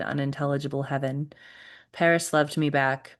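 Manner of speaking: measured, even-pitched poem recital; poetry reading. Acted. Poet reading to a Zoom audience, measured recital. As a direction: read it steadily, phrase by phrase.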